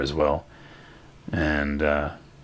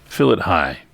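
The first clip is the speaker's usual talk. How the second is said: loud, higher-pitched call across the room; yelling out; 7 semitones higher, 7 dB louder than usual. Acted. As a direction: holler an order to the kitchen. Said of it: "he yells out".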